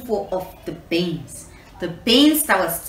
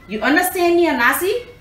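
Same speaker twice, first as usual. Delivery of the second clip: stern warning; 9 semitones higher, 5 dB louder, faster than usual. Acted. Grandma warns Anansi sternly.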